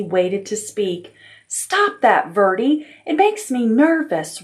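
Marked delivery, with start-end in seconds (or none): 1.5-4.4 high, nervous complaint; complaining. Acted. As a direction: scold him for fidgeting, pitched up. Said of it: "Ribbon complained".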